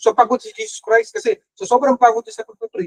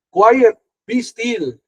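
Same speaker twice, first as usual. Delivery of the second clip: slow, steady, calm authority; calm command; 2 semitones higher, 4 dB louder, much slower than usual. Retold or imitated. Jesus commanding the storm to be still, slow and calm. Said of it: "Sabi niya".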